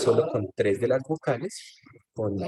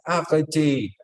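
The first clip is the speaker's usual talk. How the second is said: mock cry, higher-pitched; a singer; 5 semitones higher, 4 dB louder, much slower than usual. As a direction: imitate a singer's cry, moderately raised. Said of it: "en un momento ella grita". (grito imitado, más agudo y algo contenido)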